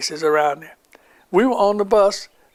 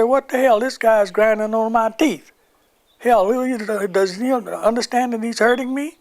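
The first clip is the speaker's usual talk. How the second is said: indignant protest; 5 semitones higher than usual. Retold or imitated. Soldier protesting to lieutenant in quarrel.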